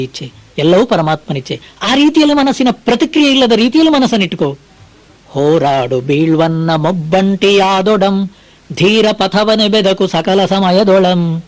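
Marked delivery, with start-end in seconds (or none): 5.3-11.4 slow, measured verse chanting; poem recitation. Acted. Preacher reciting Mankutimmana Kagga to listeners, slow recitation. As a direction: lay out each line of the verse slowly.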